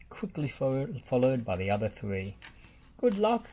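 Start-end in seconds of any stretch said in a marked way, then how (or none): 3.0-3.5 called out. Acted. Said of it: "Bob called".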